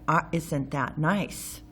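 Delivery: slow, dry mock-pleasant remark; drawn-out sarcastic compliment. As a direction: say it nice but mean the opposite. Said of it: "Pardon my sarcasm".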